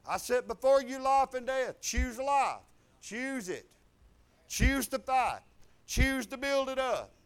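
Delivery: preacher relaying God's command with force; emphatic divine charge. Retold or imitated. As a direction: urge it in loud, punched phrases.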